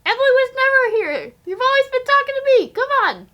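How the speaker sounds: high, loud mock-eerie voice, quick on the second line; spooky teasing persona. Cohost pretending to be someone else, high loud mock-eerie tease. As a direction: play the creepy impostor for a joke.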